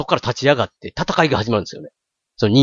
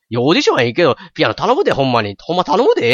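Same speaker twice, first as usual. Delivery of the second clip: mock dubbed brother pleading in Kansai dialect, voice jumping up; 関西弁の吹き替え; 4 semitones higher, faster than usual. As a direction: beg her in broad Kansai dialect, imitating the dub. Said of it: "めっちゃ関西弁なんですよ". (関西弁で懇願する兄の物真似)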